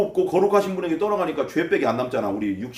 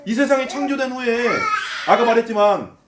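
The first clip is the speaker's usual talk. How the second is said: higher, sarcastic argument; acted scoffer's jeer; sneering; 4 semitones higher than usual. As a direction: argue mockingly in a raised pitch. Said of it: "비아냥거린다는 거예요".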